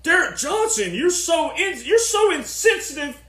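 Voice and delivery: high, whiny scolding of Derek Johnson; mock offended critic. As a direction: play an outraged critic, hammed-up. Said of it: "people go".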